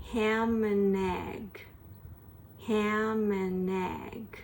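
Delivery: very slow "Ham and egg"; slow drill. Shown as a demonstration. Teacher drilling the phrase word by word. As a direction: stretch every word.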